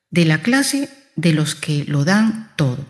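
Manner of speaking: measured, thoughtful answer; calm, reflective. Acted. Young soldier answers the mysterious voice, calm and reflective. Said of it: "ya más tranquilo y reflexivo".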